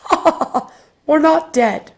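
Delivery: high, airy ghostly lady with a laugh; far-away lady's voice. Retold or imitated. Ghost lady answers the child, high distant laughing voice. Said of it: "this lady's voice, was very far away, and she had an accent".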